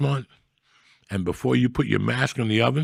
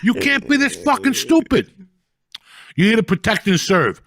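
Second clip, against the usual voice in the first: high, loud indignant rant; retold rant at cops; 7 semitones higher, 4 dB louder than usual. Yelling at the cops blocking Monday traffic, high angry rant. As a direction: tear into the cops, fired up.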